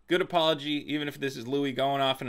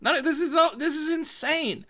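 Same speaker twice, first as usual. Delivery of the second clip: outraged shout; 11 semitones higher than usual. Real, not acted. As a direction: yell it in disbelief. Outraged comic rant.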